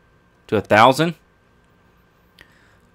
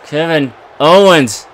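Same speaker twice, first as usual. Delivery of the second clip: mock outrage. Insulting the game opponent.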